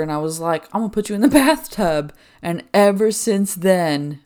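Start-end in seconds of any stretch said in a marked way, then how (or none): 0.7-2.1 joking threat. Retold or imitated. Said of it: "one time I joked with her".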